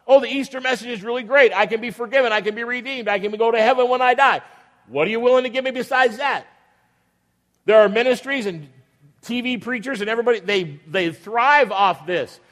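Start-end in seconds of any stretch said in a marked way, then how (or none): 0.1-6.5 selfish believer. Acted. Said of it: "Some people approach Jesus the same way".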